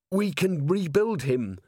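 high, slow, hoarse plea. A narrator's reading. Carrot pleading over the broken golem, hoarse. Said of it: "said Carrot hoarsely".

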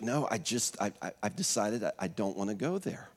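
a mild imitated murmur, halting; retold whisper. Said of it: "And we're whispering".

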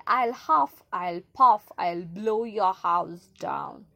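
booming big bad wolf; loud wolf threat. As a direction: bellow the threat, slow at the end.

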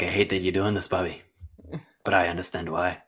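put-on a faint, half-hearted Irish accent that slips toward Scottish; barely-there mock Irish brogue, put on for a joke; bad Irish accent. Friend accepting his sacrifice, in a lightly faked Irish accent. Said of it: "That was a terrible accent".

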